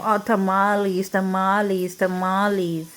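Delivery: a lightly voiced mock chant of tamales; mocking the neighbors. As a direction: parrot them with a sneer. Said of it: "They keep talking".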